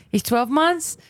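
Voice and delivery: poor attempt at a Brazilian accent; Brazilian mom's accent. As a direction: imitate a Brazilian mother's English, badly. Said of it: "that accent sounds awful".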